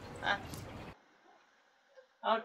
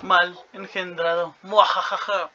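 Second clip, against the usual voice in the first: evil villain gloat with a cackle; slow evil villain laugh; mustache twirling villain; 2 semitones lower, slower than usual. Pretend. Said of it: "así que soy el".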